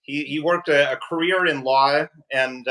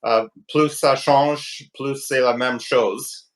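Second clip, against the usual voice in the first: poor French accent; slower than usual. Real, not acted. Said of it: "pardon my poor French accent".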